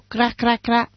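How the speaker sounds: light imitation of crows cawing. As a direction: caw it lightly, like a flock of crows. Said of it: "come corvi riuniti in gruppo".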